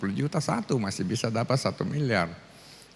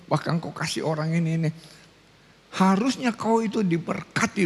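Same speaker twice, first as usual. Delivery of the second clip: mock indignant pastor; 4 semitones higher than usual. Pastor scolds Anton, face changing.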